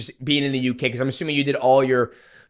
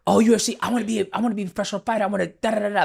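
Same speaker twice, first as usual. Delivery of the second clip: mocking rookies; 6 semitones higher, much faster than usual.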